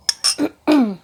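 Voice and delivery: loud, rough clearing of the throat; real throat clear as the voice goes. Real, not acted. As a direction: clear a tired throat hard. Throat going during reading.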